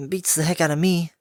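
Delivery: lightly high, curious filly; puzzled and teasing; young filly voice. Acted. Tomboy filly.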